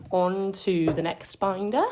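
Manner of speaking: mock British accent on a slow announcement; terrible British accent. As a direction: put on a playful, bad British accent. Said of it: "I have a terrible British accent".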